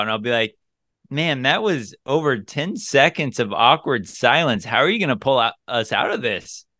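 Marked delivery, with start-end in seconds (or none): 1.1-6.6 teasing date. Retold or imitated. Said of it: "I say it just like that".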